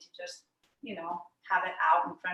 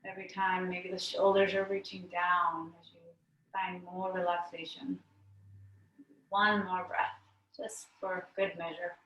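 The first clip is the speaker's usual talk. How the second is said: unhurried yoga teacher leading breaths, with pauses; guided meditation. Real, not acted. Yoga teacher settling the class to breathe out stress, guided meditation. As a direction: guide the class into letting go, phrase by phrase.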